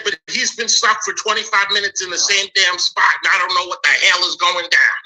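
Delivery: angry complaint. Retold or imitated. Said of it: "I said".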